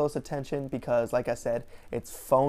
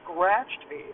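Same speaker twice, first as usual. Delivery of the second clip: nonchalant; 4 semitones higher than usual. Retold or imitated. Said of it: "super nonchalantly".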